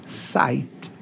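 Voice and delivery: "Site" said the English way, softly; English pronunciation demo. Shown as a demonstration. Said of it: "Isso aqui é mais ou menos o que se fala". (pronúncia inglesa de "Site", em voz baixa)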